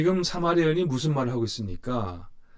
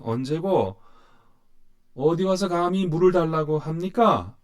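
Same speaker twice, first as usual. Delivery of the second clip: indignant woman; 4 semitones higher than usual. Acted. Preacher voicing the Samaritan woman's anger at Jesus, raised and indignant. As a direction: throw the outrage at the stranger who asks for water. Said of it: "분노와 적개심이 느껴집니다".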